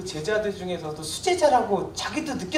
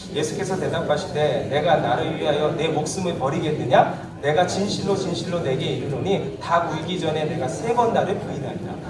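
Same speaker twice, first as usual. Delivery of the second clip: scripture reading; 4 semitones lower, 4 dB louder than usual. Acted. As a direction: read the verse out together, measured and loud. Congregation reads scripture aloud.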